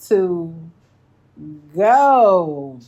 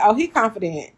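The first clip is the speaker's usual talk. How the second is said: laughing quote. Retold or imitated. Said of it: "Nikki said".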